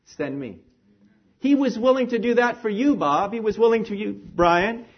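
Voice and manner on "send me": great enthusiasm. Retold or imitated. Jesus volunteering for the mission, with great enthusiasm. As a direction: offer yourself gladly. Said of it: "with still that great enthusiasm".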